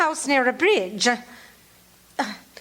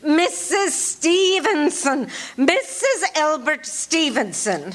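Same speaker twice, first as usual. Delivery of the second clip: slow and deliberate, each word laid out; slow dictation; slower than usual. Acted. Caller gives her name to the sergeant, slow and deliberate. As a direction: say it slowly so he can write it down.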